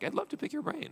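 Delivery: mock casual ask. Mocks casual founder line.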